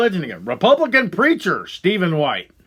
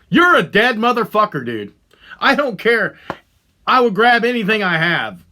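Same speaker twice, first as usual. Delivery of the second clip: raised, heated threat to the man; real rage, voice climbing; furious threat; 2 semitones higher than usual. Real, not acted. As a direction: dare him into the room, shouting.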